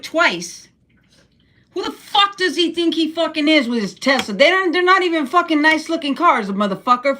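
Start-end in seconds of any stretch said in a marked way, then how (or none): 1.7-7.2 higher, pitched-up angry venting; heated rant. Real, not acted. Vlogger venting to viewers about Musk, heated rant. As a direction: let the outrage spill out at the camera. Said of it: "I just needed to rant".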